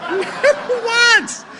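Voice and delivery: very high, drawn-out exclamation; incredulous emphasis. Real, not acted. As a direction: squeal it slowly in comic disbelief. Comic repeat for emphasis.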